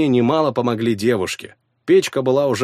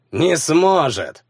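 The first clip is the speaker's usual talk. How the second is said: smirking; 5 semitones higher, much slower than usual. Acted. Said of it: "усмехнулся Алексус".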